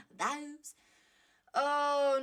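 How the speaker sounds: put-on high, loud comic old-film voice on "Those"; Norman Wisdom. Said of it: "Norman Wisdom came out of me then".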